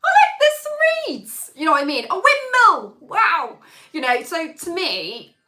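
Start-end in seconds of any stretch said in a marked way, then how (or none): 0.0-1.5 mock bored commentary. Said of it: "you're like". 2.1-3.6 mock bored excitement. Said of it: "you're like".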